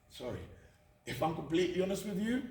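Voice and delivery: a quiet, choked apology; a soft, tearful sorry. Real, not acted. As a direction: break off, fighting back tears. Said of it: "before I do get emotional".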